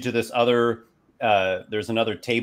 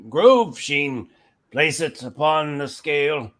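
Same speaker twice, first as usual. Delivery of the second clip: put-on higher-pitched old official reading a slip; old elf clerk; 5 semitones higher, 3 dB louder, slower than usual. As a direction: give a formal order from behind the counter. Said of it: "he looks at this little slip".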